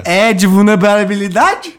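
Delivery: slow teasing replay, "vulnerabilidade" rising high at the end; mocking question tune. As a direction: imitate his sure-then-asking tone, slowly. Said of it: "terminou com um tom de pergunta". (imitando a entonação de pergunta, devagar)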